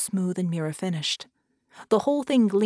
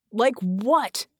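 exasperated raised voice; mild acted scream; 3 semitones higher, 4 dB louder than usual. Red challenges Vicky's demand, mildly yelling. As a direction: throw it back in frustration. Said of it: "Red screamed".

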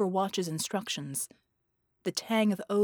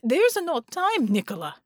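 wailing; 6 semitones higher, 6 dB louder than usual. A narrator's reading. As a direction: wail out in despair. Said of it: "Marconi wailed".

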